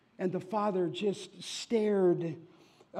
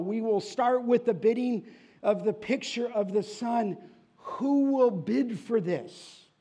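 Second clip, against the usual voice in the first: auctioneer; 4 semitones higher, 5 dB louder than usual. Acted. Auctioneer opens the bidding.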